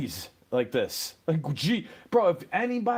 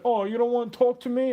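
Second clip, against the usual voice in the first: mock sweet talk; 7 semitones higher, 4 dB louder than usual. People sweet-talking the dog.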